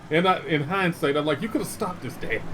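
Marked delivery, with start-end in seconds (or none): 1.4-2.4 mock whine. Kid blaming dad, whining.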